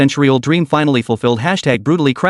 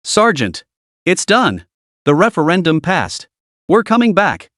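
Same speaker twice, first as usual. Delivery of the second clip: wildly excited; 3 semitones higher than usual. Acted. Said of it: "burst out like a madman".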